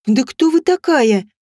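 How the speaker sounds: mild cry of alarm; cried out. Acted. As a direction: push the question out despite fear. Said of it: "я всё же выкрикнула".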